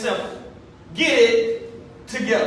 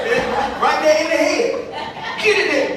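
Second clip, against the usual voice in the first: high, loud, laughing through the words; 5 semitones higher, 6 dB louder, slower than usual. Real, not acted. Recalling the Archbishop's finger poke, laughing loud. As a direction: laugh while acting it out.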